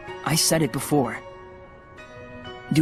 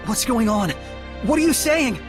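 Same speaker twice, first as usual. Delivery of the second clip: alarmed questioning; 5 semitones higher than usual. Acted. Alarmed at dying man's words.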